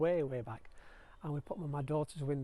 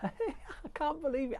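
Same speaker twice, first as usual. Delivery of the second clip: high, slow squeal of disbelief; can't believe her luck; excited disbelief; 11 semitones higher, 4 dB louder, slower than usual. Real, not acted. Spots cucumbers growing.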